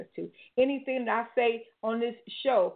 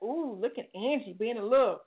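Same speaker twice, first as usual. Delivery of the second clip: lightly voiced excited gossip; mock excitement. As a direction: imitate nosy onlookers relishing gossip. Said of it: "people were excited, like".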